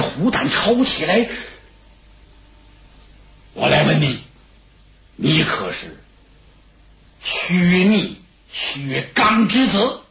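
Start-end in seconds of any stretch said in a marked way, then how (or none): 3.5-10.0 a hint of a grim king questioning; low, deliberate judge's voice; lower, slow stern interrogator. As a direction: drag out the question, menacing.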